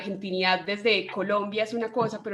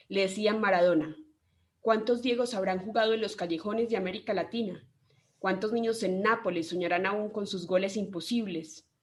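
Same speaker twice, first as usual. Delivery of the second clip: measured, solemn podcast intro read over music; essay narration. Acted. Host opening a tribute episode to Maradona, solemn narration.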